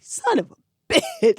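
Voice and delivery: a slow, high groan of regret; dismayed. Retold or imitated. Lewis realises the dangerous job.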